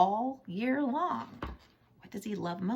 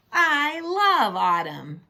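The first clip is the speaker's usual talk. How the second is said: happy exclaim; 9 semitones higher, 10 dB louder, slower than usual. A narrator's reading. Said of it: "Pete says".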